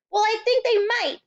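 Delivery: very high, loud eager claim; bubbling hope; excited cry. A narrator's reading. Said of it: "Matilda cried".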